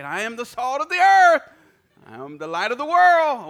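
loud, high preaching proclamation. Acted. Reminding himself mid-phone call, loud preaching. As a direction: proclaim it to the rafters.

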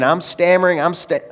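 a brief illustrative stutter mid-sentence; stammering. Shown as a demonstration. Preacher admits nerves meeting an unbeliever, stammering. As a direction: stumble and restart on "st-". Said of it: "I'm stuttering too sometimes".

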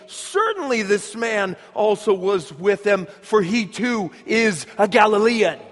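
"Certainly" stressed up front, building to a strong "Galilean"; emphatic insistence. Acted. Bystander insisting Peter is a Galilean, "Certainly" said emphatically. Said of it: "emphatically saying".

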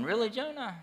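high, disbelieving voice of God; God asking in exasperated disbelief; God asking Jonah in high mock disbelief; incredulous God. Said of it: "God is looking at Jonah going".

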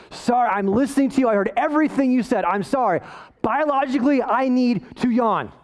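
imitating a worn-out wife defending herself; mock exasperation. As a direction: plead your case, mildly exasperated. Voices wife defending her yawn.

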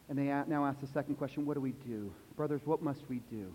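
soft, heavy preaching voice; hushed solemn telling. A narrator's reading. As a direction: bring them close and drop it to a hush.

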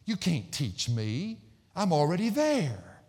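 slow, drawn-out boast; conceited. Acted. Preacher mimicking people who think they know it all, conceited. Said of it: "That's that conceit. That's that arrogance".

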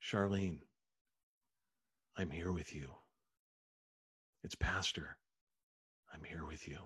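very soft, low, spaced-out bedside murmur; hushed and low, as if close to a dying woman's ear; gentle whisper. Retold or imitated. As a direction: imitate a pastor softly comforting the dying, with long pauses. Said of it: "and whisper to her".

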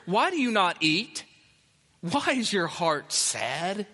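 a drawn-out, mildly mocking husband's question; mock clueless tone. Pastor mimics Elkanah questioning weeping Hannah, mildly mocking. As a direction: slows down to poke fun at the clueless husband. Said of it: "I think it's that kind of tone".

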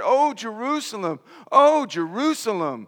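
preacher voicing a sorrowful plea; passionate lament. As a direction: call out to the city with grief and tenderness. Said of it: "with passion and compassion and sadness".

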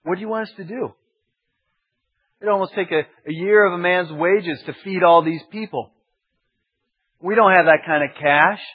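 quick, defensive protest, a little high; quick retort. Retold or imitated. Disciples protesting the cost of feeding the crowd, quick and defensive. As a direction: fire it straight back. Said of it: "they just shot back real quick".

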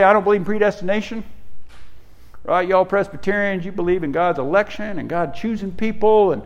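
mock objector with a country twang. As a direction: quote them in a folksy country twang. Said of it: "when I quote other people I get a country twang".

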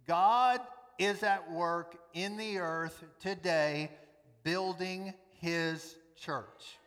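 slow, weighty declaration; emphatic certainty. Real, not acted. Preacher assuring the church God is at work, emphatically certain. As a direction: spell it out slowly, with total conviction. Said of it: "emphatic certainty".

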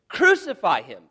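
loud, high crowd shout; crowd cry. Acted. Mob demanding Pilate crucify him, shouted.

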